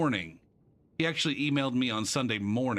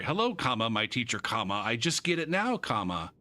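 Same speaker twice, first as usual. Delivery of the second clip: reading out punctuation. Retold or imitated.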